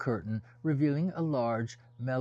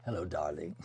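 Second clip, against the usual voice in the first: put-on lower, unplaceable African or Middle Eastern accent; hard-to-place foreign accent; 6 semitones lower, faster than usual. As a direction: greet him in a lightly exotic foreign accent. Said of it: "with an accent, African, Middle Eastern".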